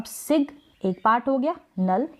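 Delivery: "सिग" and "नल" as separate parts; syllable split. Shown as a demonstration. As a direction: sound the g closing "सिग", then start "नल" afresh. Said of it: "दूसरा part हो गया".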